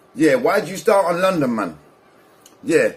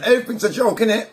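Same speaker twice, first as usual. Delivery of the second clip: laughing; 7 semitones higher, faster than usual. Real, not acted. Laughing at rival's antics.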